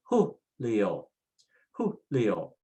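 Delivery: Julio with an H at the start, HOO-lee-oh. Shown as a demonstration. Teacher shows J is H sound, Spanish H. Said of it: "the J is H sound".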